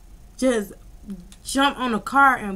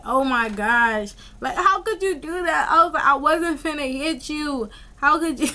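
mock tearful, higher-pitched plea; crying voice; 5 semitones higher than usual. Pleading with the ex who broke the window, mock crying voice. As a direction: imitate yourself wailing in disbelief. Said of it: "That's my crying voice".

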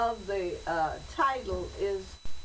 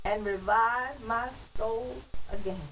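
poem recitation. Acted. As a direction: recite it like a church poem, each phrase set apart. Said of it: "But I'm gonna read it as a poem".

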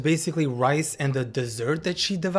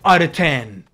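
exasperated rant; 5 dB louder than usual. Real, not acted. Ranting about her rating.

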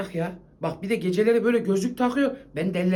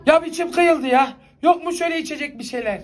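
raised-voice grumbling demand; loud complaint; 3 semitones higher, 3 dB louder than usual. Acted. Man demanding a drink from Hatice, raised voice. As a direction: complain loudly, pitched up at the start. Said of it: "Ne bağırıyorsun lan?".

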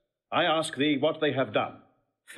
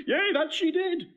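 laughing; 13 semitones higher than usual. Acted. Laughs about Beatrice's weeping.

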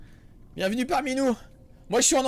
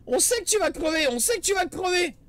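put-on higher, sing-song ghostly children's voice; creepy kids taunting; 7 semitones higher than usual.

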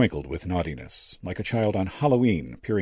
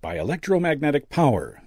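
higher, pleased revelation; confiding; 8 semitones higher, 3 dB louder than usual. A narrator's reading. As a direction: let him in on the secret, pitched up. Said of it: "the old medium confided".

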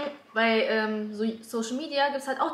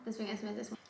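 talking with mouth full; words around a bite of food; chewing while talking; 10 dB quieter, much faster than usual. Real, not acted. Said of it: "wenn man ein Mukbang dreht".

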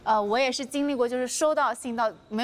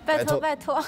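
cutesy whiny pleading; 4 semitones higher than usual. Pretend. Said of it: "撒娇八连拍".

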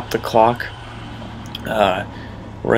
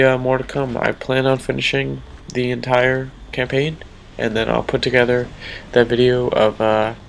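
stuffy, nasal voice. Real, not acted. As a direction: talk with a blocked nose. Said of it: "sorry for the nasally voice".

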